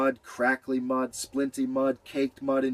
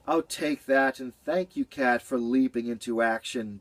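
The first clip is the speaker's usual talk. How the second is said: grateful. Acted. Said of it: "Beaver sounded filled".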